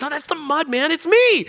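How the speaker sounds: high, eager protest; pumped and excited. Retold or imitated. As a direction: laugh it off and insist it's really him. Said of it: "Probably pumped and excited about this situation".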